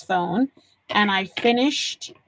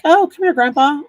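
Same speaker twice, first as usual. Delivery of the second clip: eager grandson; 6 semitones higher, 8 dB louder, faster than usual. Retold or imitated. Voicing son offering grandpa help.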